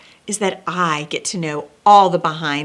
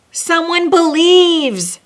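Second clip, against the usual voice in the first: higher, louder, slow and wondering; noted with care; 10 semitones higher, 8 dB louder, slower than usual. Acted. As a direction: let the hope swell as you say it. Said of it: "Santa noted with care".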